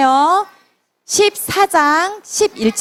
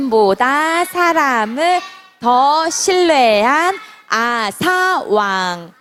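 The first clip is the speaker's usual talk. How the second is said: slow, drawn-out title reading; slow group reading; much slower than usual. Shown as a demonstration. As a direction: read the title slowly, word by word. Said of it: "제목". (천천히 또박또박 읽는 제목)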